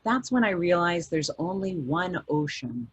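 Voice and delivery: understated nautical log read; log entry reading. A narrator's reading. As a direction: read the coordinates like a captain's logbook. Reads Michael's ship log aloud.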